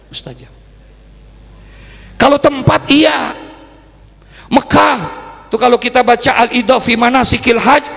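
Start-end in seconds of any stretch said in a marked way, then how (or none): 2.2-7.8 raised, high-pitched preacher's delivery; impassioned preaching. Real, not acted. Preacher telling the congregation where prayers are answered, impassioned.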